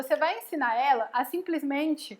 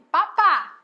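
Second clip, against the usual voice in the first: put-on louder, higher toddler word; imitating baby talk; 4 semitones higher, 7 dB louder than usual. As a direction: lightly mimic a baby asking for food. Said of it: "Ela fala assim".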